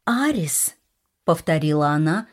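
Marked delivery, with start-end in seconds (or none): 0.1-0.7 Арис squeezed out through clenched teeth; through gritted teeth. Acted. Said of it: "сквозь стиснутые зубы".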